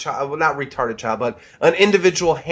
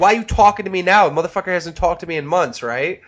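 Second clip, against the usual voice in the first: a touch of mock anger, higher and fast; heated retort; 3 semitones higher, faster than usual. Replaying his heated reply to Blade, mildly angry. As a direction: grumble it like an offended friend. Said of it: "oh, you were heated".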